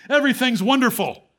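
light laugh breaking into the words. Retold or imitated. Jailer voiced by the preacher, joyful laughing delivery. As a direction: chuckle it out as a delighted man.

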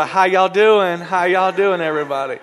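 loud, giddy, with laughs; gushing excitement. Acted. Newly engaged woman greeting church, gushing. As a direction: show off the ring bubbling over. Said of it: "She gonna say to me".

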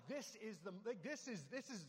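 high, stammering mock panic building to a yell; breathless-kid excitement, hammed up; freaking out. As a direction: act out a kid losing it, ending in a loud cry. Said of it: "Like, I'm freaking out".

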